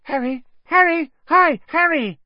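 very high, loud, starstruck calls; a thrilled kid calling out to his hero; eager Colin. A narrator's reading. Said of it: "Colin looked eagerly".

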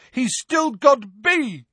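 high, loud slow yell; shout. A narrator's reading. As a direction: call down urgently. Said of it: "shouted a voice from above".

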